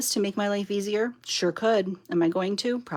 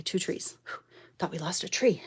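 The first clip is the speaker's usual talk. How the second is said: relieved whisper; 6 dB quieter than usual. Real, not acted. Relief after almost losing a tree.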